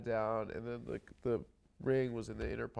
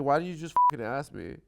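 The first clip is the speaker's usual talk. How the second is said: retold exasperation; 6 dB louder, faster than usual. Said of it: "she's like".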